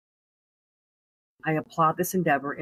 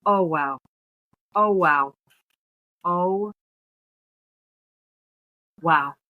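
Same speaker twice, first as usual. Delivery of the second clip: stunned "oh, wow", louder each time; overcome, emotional; 2 semitones higher, 5 dB louder, much slower than usual. Real, not acted. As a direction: caught off guard by the book, moved. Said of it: "I'm about to get really emotional right now".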